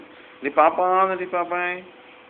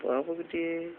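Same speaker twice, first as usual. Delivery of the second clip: tender calling; 5 dB quieter than usual. Real, not acted. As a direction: stretch the name out gently. Parent calls child by pet name.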